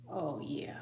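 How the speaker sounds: soft unvoiced whisper; whispered shock at the thought; hushed disbelief. Real, not acted. Reacting in disbelief.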